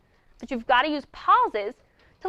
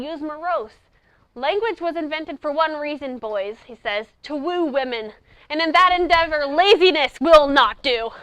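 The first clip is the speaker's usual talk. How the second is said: quoted speech. Acted. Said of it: "It says".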